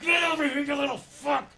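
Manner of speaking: high shouted snarl at the dog; mock shout. Owner grabbing the dog at last, high mock shout. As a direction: yell as the dog is finally caught. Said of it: "and you're like".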